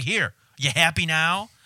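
mock yelling. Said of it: "I started yelling at her".

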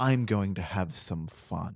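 mock mysterious offscreen voice. Pitching a movie end credit scene: Master Hand voice. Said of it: "and you just hear a voice like".

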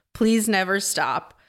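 ordinary talk, nothing marked

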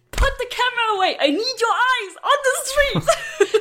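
play-acted shrill, very high-pitched scream. Retelling a tense drive, screaming at a passenger: imitating someone screaming. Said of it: "I was screaming at her".

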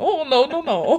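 very drawn-out, high, slow "no". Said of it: "in his voice".

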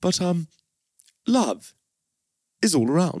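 put-on posh English actor accent. Taking your turn at the impression while the other waits to try it, Hugh Grant impression. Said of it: "I'll do Hugh Grant".

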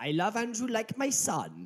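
put-on Welsh accent, very high. Retelling their own past remark, put-on Welsh accent. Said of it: "Say Andrew in the Welsh".

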